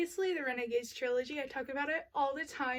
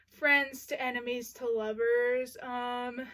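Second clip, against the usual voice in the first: out of breath. Real, not acted. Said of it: "Y'all, I'm out of breath".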